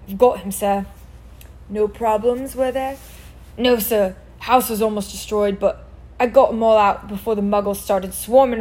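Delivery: a hint of a southern Hagrid; southern accent. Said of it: "why he sounded southern there".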